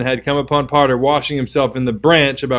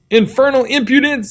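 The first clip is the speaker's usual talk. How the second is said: scornful remark; 11 semitones higher than usual. Acted. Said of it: "said a bystander".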